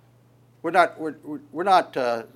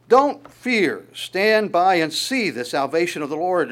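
raised, ringing call to be unafraid; Moses's call; 3 semitones higher, 5 dB louder than usual. Retold or imitated. Moses reassures frightened people.

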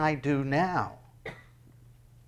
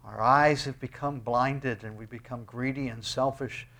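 closing prayer. Acted.

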